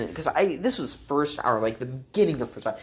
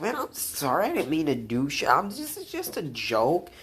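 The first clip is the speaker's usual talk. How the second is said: higher, pleading, apologetic; pleading apology; 4 semitones higher than usual. Retold or imitated. Student apologizing to the friend who reported him, pleading. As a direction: beg him to drop it. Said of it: "And I'm like".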